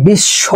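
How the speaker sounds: বিশ্ব said "bish-sho", doubled sh; pronunciation demo. Shown as a demonstration. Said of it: "হালকা একটা ব ফলার উচ্চারণ আছে".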